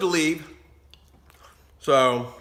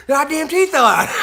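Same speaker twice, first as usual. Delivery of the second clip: high, loud mock outrage; hammed-up indignant outburst; mad dad; 9 semitones higher, 5 dB louder than usual. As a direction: imitate an angry man's complaint. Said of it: "He's all mad".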